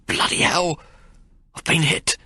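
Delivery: high, startled gasp of pain; a sudden stunned yelp then a breathless hit; shocked cry. Acted. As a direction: blurt it out as the ball hits you. Narrator shot in the water.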